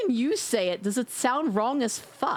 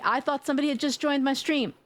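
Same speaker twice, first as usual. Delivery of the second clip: laughing shriek; 2 semitones higher, faster than usual. Real, not acted. Startled, laughing it off.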